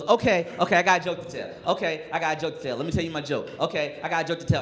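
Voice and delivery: put-on a touch of a hurried, eager boy; excited kid. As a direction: rattle it off like an impatient kid. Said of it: "He goes".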